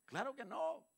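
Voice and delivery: muy agudo y fuerte, rotundo; niégalo con toda la fuerza; enfático. Real, not acted. Responde a su propia pregunta. (el predicador responde a la congregación, rotundo)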